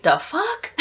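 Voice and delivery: a baffled "the fuck" like walking into chaos; shocked outburst. Retold or imitated. Ragnar walks back in and finds the mess, startled.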